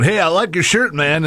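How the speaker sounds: hint of a cartoon brat impression; Bart Simpson. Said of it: "in the Bart Simpson voice".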